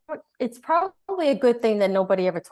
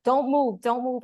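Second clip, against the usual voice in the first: doctor's order; 5 semitones higher than usual. Retold or imitated. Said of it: "he's like".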